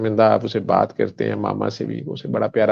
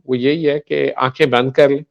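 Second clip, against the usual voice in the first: guided meditation. Shown as a demonstration. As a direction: lead them gently inward, unhurried. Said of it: "दुआ जो आप कह रहे थे मैं करवा दूं".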